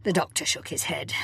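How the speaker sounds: ordinary delivery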